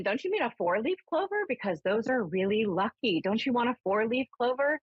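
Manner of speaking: high, pleading questions. Retold or imitated. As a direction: coax him toward four leaves, voice up. Questioning spirit, pitched up.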